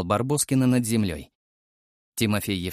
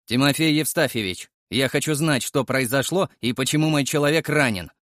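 steely tone; 4 semitones higher than usual. Acted. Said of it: "стальным тоном спросил я".

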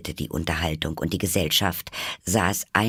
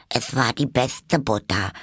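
mildly meek, higher-pitched Hare; 6 semitones higher than usual. A narrator's reading. Hare excuses the butter to the Hatter, meek. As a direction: offer it as a humble excuse. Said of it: "sagte der Faselhase demütig".

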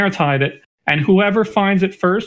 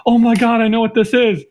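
excited; 5 semitones higher than usual. Retold or imitated. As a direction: burst out with delighted glee. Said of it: "she's like".

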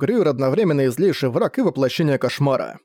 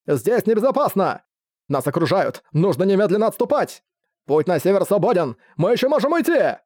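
panicked shouting; 5 semitones higher than usual. Acted. Officers panic, urge retreat.

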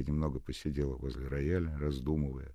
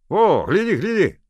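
much louder, higher, eager; excited neighbour; 16 dB louder than usual. A narrator's reading. Fedot showing the chest, excited. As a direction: show it off with glee.

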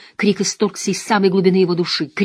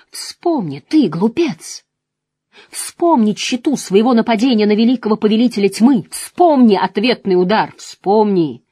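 dark lord; 4 semitones higher, 4 dB louder than usual. Acted. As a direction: sneer it at him. Dark lord taunts the hero.

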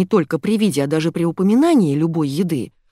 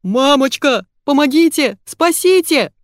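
much higher, louder panicked squeal; squealing for help; 8 semitones higher, 5 dB louder than usual. A narrator's reading. Fyodor squeals for help while beaten. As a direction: shriek for rescue. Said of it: "визг Фёдора".

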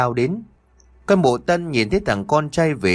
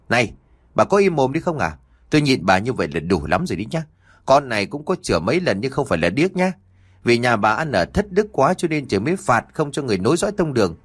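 talking back angrily; 3 semitones higher, faster than usual. Acted. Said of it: "cãi lại mụ như là chém trả".

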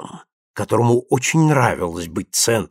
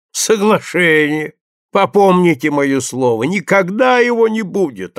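authoritative scoff; 6 semitones higher than usual. A narrator's reading. Hostess overrules a guest with authority. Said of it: "авторитетно заявила Прасковья Павловна".

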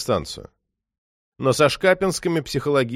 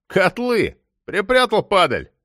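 higher, joyful exclamation; gleeful yelp; 7 semitones higher, slower than usual. A narrator's reading. Moksha searching Tokarev's pockets and finding a watch, gleeful yelp. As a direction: cry out in delight at the loot. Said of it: "радостный всхлип Мокши".

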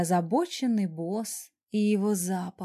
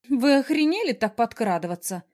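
squeal; 2 semitones higher, 4 dB louder than usual. Acted. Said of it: "взвизгнула я".

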